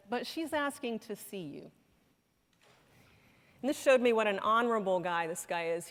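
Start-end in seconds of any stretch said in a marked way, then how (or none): 0.1-1.7 a softer voice, said gently as a retold quote; quietly retold. Husband telling the doctor over the phone, quietly. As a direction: hand the request over quietly. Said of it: "the husband quietly said".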